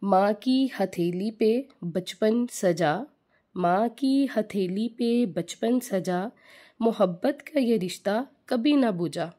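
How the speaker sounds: slow, tender couplet recital; poem recital. Shown as a demonstration. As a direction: recite the couplet slowly, savouring each word. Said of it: "एक छोटा सा शेर बोलना चाहूँगी".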